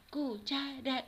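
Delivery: "Cu-cha-ra" in three even beats; teacher counting out "Cuchara"; syllable by syllable. Shown as a demonstration. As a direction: split "Cuchara" into separate syllables. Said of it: "¿Cuántas sílabas tiene cuchara?".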